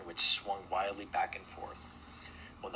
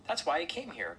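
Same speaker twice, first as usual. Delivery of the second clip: high-pitched shrew complaint; complaining; 8 semitones higher, 3 dB louder than usual. A narrator's reading. Shrew objecting to the cancelled festival, high complaining. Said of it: "complained the shrew".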